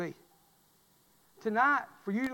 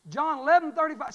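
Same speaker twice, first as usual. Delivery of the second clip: leading the congregation; 6 semitones higher, 5 dB louder than usual. Shown as a demonstration. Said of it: "Say that with me".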